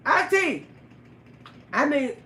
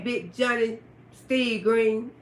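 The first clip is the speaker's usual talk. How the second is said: slow name call-out; 2 semitones lower, slower than usual. Real, not acted. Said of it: "I'ma call your name".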